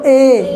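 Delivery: a long, steady "ए" with nothing blocking it; vowel from the throat. Shown as a demonstration. Teacher asks pupils to say it, sustained model vowel. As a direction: draw out "ए" from the throat. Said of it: "यहाँ से गले से".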